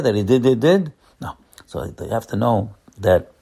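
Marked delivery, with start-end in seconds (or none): 0.0-0.9 mock hiccups. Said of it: "the hiccups over here".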